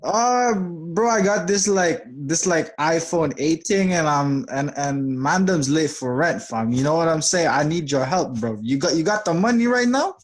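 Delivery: casual London street slang voice; London roadman accent. Pretend. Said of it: "We're not gonna talk like that".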